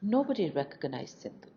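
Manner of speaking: ordinary delivery, nothing marked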